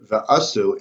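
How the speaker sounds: V'asu with the weight on the first syllable, VA-su; stress on first syllable. Shown as a demonstration. Teaching the congregation how V'asu is stressed, VA-su. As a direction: say V'asu as mil'el, leaning on the opening VA. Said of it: "is mil'el".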